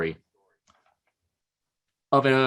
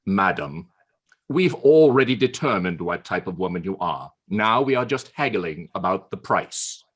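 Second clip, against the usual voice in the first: lower, dry, unhurried retort; Churchill's punchline; 5 semitones lower than usual. Acted. Churchill coolly putting the woman in her place, low and dry. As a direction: deliver the zinger low and dry.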